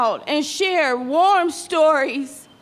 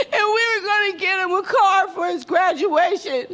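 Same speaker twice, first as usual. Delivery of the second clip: crying; 4 semitones higher than usual. Real, not acted. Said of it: "I'm gonna try not to cry".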